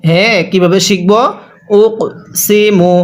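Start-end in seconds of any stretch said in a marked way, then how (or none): 1.8-2.9 উক with a light push on the ক; qalqalah bounce. Shown as a demonstration. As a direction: give the ক in উক a small bouncing release. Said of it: "হালকা ধাক্কা দিয়ে পড়ব". (ক-তে হালকা ধাক্কা দিয়ে উক সি মু)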